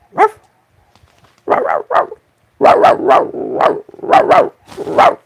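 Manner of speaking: very high, loud yapping dog barks. Acted. Barking at the dogs to get them to bark back, very high and loud. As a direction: yap like a small excited dog.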